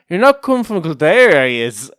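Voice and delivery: high, loud retold accusation; accusing neighbour. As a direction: confront them like a suspicious neighbour. Neighbour confronts them in retold story.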